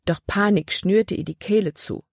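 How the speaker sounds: ordinary delivery, nothing marked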